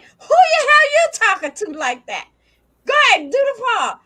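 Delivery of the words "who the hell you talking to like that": voicing the dog. Owner voicing her dog Sassy's offended reply, mock outrage. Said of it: "She like".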